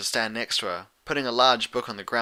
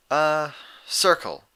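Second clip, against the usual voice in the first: Twilight; 5 semitones higher, 4 dB louder, much slower than usual. Acted. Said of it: "she added".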